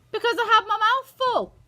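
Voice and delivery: put-on high, loud childish retort; greedy boy protesting; indignant small boy. A narrator's reading. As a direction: blurt it back defensively.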